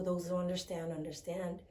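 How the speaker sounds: soft, hoarse and groggy. Real, not acted. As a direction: let the voice fade groggily. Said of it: "the groggy voice".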